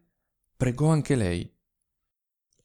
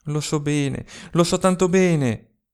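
hurried reply; 3 semitones higher, 3 dB louder than usual. Acted. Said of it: "s'affrettò a rispondere Malia".

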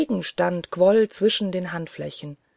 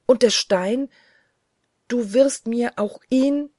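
higher, louder urgent question; bursting out; 5 semitones higher, 4 dB louder than usual. A narrator's reading. Narrator begs the angel for the stone, bursting out. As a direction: blurt it out with eager force. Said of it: "brach's aus mir mit Springflutgewalt".

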